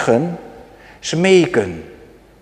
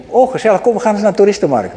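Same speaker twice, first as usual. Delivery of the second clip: mock enthusiasm; 4 semitones higher, much faster than usual. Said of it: "Dan zegt Jane".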